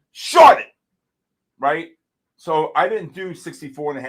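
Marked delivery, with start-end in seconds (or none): 0.1-0.7 sudden high shouted call; retold call. Trader replaying his own sell call, a high shout. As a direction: bark the order to sell. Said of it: "I said".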